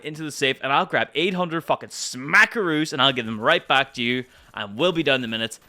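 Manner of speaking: mock generosity, dripping with sarcasm; sarcastic mock offer.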